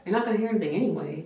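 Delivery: quick, sneering parody of the tech's line; mocking mimicry. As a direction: throw her own words back, mocking. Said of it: "I was like".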